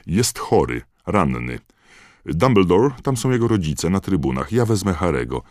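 high, loud, pressing shout; urgent shout. Acted. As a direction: push the point over the noise. Fudge urgently shouting to Dumbledore.

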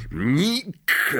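high, hailing call; acted hearty bellow; bellowed greeting. A narrator's reading. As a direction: roar the name in greeting. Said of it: "ryknęła głowa".

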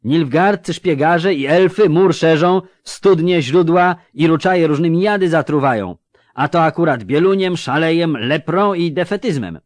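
high, loud rumour-spreading; excited amulet seller calling. A narrator's reading. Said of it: "zawołał sprzedawca amuletów". (sprzedawca wołający głośno, wysokim głosem)

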